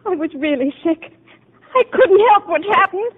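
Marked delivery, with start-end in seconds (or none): 1.8-3.1 higher, crying protest; patient insisting to the doctor, crying; tearful. Acted. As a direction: plead through tears. Patient breaks down in tears.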